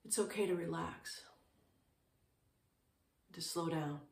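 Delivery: calm, unhurried meditation guidance with long pauses; short, settled phrases with room to breathe; guided meditation. Real, not acted. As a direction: guide listeners gently into stillness, leaving space between phrases.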